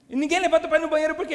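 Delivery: fast, high, loud retold question; incredulous question. Asking the pastor about the toilet rule, incredulous. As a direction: fire it back in acted bafflement.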